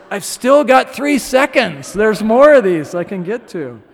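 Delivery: put-on high, loud mischievous little girl voice; defiant toddler's thoughts. Daughter defying dad at the stereo, high and cheeky. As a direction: play the daughter racing to touch every knob.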